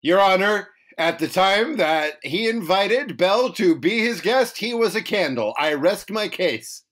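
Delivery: lightly voiced courtroom advocate; mock lawyer. Co-host pleading candle case to a judge, mock lawyer. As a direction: argue it like a closing statement.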